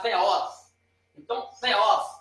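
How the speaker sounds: THEOS with a half-blown, airy T; aspirated T. Shown as a demonstration. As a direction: puff air through the first sound of THEOS. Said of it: "É um T meio soprado".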